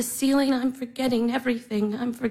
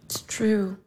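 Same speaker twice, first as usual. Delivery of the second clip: breathy whispered admission; 3 semitones lower than usual. Acted. Sister whispering her despair to herself. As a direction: barely voice it, worn out.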